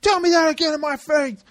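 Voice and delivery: high, challenging retold threat; mock confrontation. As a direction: get up in his face, half-mocking. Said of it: "He, like, gets in his face".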